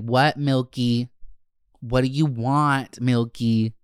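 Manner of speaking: slow, exasperated what; annoyed. Retold or imitated. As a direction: drag it out, fed up. Annoyed at him in car.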